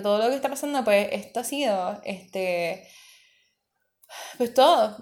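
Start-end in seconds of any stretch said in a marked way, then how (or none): 4.4-5.0 much higher, laughing through the word; real laugh breaking in. Real, not acted. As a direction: chuckle it out helplessly. Laughing at the chaos.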